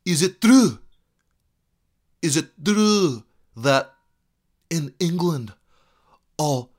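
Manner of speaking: slow, hammed-up Braveheart Scot; Scottish Braveheart accent. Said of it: "That's kinda like my Braveheart impression, which I know is pretty horrible".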